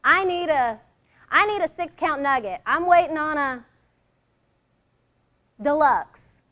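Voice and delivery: loud, pushy fast-food order; demanding order. Retold or imitated. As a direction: bark out the order impatiently. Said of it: "That particular girl would say".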